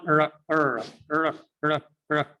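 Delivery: "ر" as a bare short R sound, repeated; short separate bursts of "ر"; reduced R sound. Shown as a demonstration. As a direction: demonstrate "ر" as a quick lone R. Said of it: "like that".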